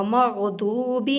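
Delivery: مغضوب with full heavy غ and lips-rounded ض, slow. Shown as a demonstration. Teacher models مغضوب for students, slow and heavy. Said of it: "داد کو بھی پر کر کے پڑھنا ہے".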